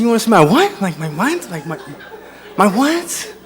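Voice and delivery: rising, puzzled question; baffled disbelief. Retold or imitated. Bar patron questioning a drunk's odd demand, baffled. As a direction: stammer it out, thrown by the request. Comic acts baffled reply to stranger.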